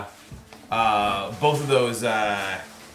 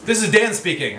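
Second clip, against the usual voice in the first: goblin voice; 8 semitones higher, 4 dB louder than usual. Acted. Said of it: "He, he starts talking with his name".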